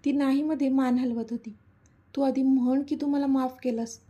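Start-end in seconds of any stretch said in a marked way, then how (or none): 2.2-4.0 put-on a touch of childish stubbornness; stubborn insisting. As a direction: insist like a sulking friend. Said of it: "Madhu हट्ट करत बोलत होती".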